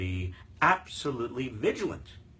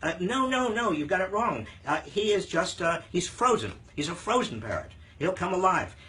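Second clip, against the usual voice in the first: higher-pitched comic salesman in denial; raised, insistent mock sales voice; retold salesman; 6 semitones higher, 3 dB louder than usual. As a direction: protest as a salesman covering for bad goods. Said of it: "the person who's selling says".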